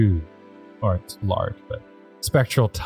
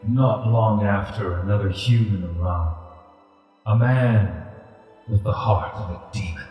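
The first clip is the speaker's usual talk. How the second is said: deep rumbling voice. Acted. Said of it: "a deep rumbling voice emanates from this ghostly tiger".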